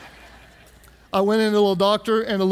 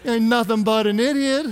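laughing punchline. Real, not acted.

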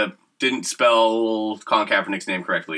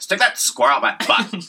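Missouri hick voice; 10 semitones higher than usual. Retold or imitated. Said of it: "what everyone in Missouri says".

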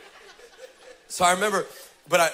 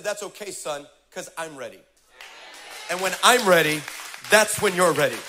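calm reassuring God. Retold or imitated. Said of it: "He said".

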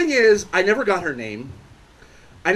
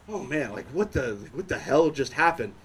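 low, soft, dazed; quiet bewildered mumble; 6 semitones lower, 7 dB quieter than usual. Retold or imitated. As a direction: mumble it, worn out and baffled. Exhausted inner thought.

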